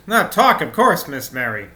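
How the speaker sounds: put-on maid with a lilting, accidental Norwegian accent. Maid denies talking to Barter, Norwegian accent. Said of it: "Norwegian accent right now".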